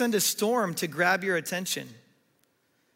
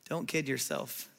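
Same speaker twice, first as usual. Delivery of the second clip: soft, low, loving caution; gently loving; 5 semitones lower, 7 dB quieter than usual. Real, not acted. Preacher lovingly cautioning those in private rebellion, gently. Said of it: "Can I just lovingly say".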